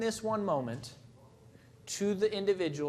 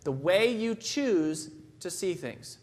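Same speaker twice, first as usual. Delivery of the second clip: slow repeated definition; slower than usual. Real, not acted. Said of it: "That's it".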